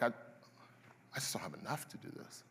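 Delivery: slow, hushed whisper of inadequacy; whispered despair. Retold or imitated. Believer confessing to God in hushed whisper. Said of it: "You're like".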